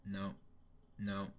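ordinary talk

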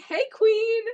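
high, bright mock-friendly villain confession; villain girl. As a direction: chirp the threat like a compliment. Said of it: "She's like".

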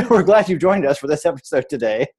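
laughing through the words. Real, not acted. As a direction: chuckle while talking.

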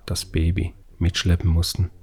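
ordinary delivery, nothing marked

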